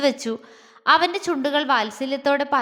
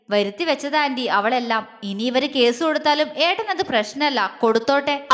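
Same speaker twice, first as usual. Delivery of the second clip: dismissive contempt; scornful. Acted. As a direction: brush it off with disdain. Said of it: "Appu പുച്ഛത്തോടെ പറഞ്ഞു". (പുച്ഛത്തോടെ)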